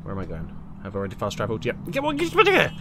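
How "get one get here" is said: calling out. Real, not acted. Calling out in a fight.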